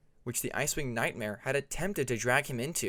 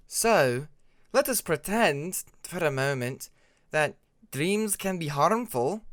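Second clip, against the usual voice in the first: confused; 4 semitones higher, 5 dB louder, slower than usual. A narrator's reading. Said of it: "sounding more confused than skeptical".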